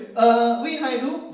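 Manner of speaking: slow, mock Vietnamese-accented German; bad Vietnamese-accented German. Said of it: "ngomong Jerman jelek". (bahasa Jerman pelan berlogat Vietnam)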